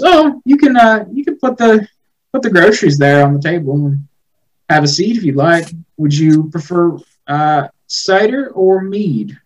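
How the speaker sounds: high, gentle hostess voice; high sweet hostess. Acted. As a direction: welcome him in sweetly. GM voices Gertrude hosting.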